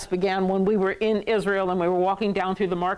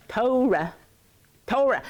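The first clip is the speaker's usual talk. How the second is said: Torah as TOH-ruh, falling away; stress on first syllable; 3 semitones higher than usual. Shown as a demonstration. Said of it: "instead of Torah".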